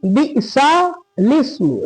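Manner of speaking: "बिसा लिस्मु" slowly as bi'sa, then lis-mu; correct joining. Shown as a demonstration. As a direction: split "बिसा लिस्मु" before the laam. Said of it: "देखिए यहाँ नीचे सही लिखा है".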